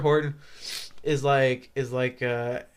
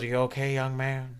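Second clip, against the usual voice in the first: mock principal; 3 semitones lower, 9 dB quieter than usual. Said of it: "And he goes".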